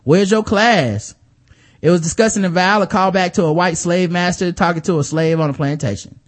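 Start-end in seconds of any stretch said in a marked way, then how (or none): 0.1-1.1 lightly voiced over-the-top sassy taunt, slowing on class; a hint of a hammed-up stereotypical voice; mock stereotypical voice. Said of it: "in the over-the-top stereotypical black voice".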